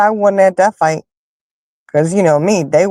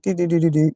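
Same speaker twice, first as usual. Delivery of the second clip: quick little "do-do-do" run sound, pitch hopping up; light mimicked patter of someone running out; imitated scurrying noise; 5 dB quieter, faster than usual. Speaker mimics Mike Tyson running out alone, imitated scurrying noise.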